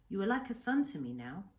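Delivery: lightly voiced old man in broken English, grave and sorrowful; a hint of an old Japanese hermit telling his grief; Kensuke's voice. Old islander speaks to the boy.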